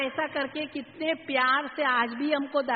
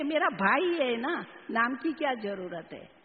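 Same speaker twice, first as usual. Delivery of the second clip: affectionately. Retold or imitated. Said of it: "दादी ने जवाब दिया स्नेह से".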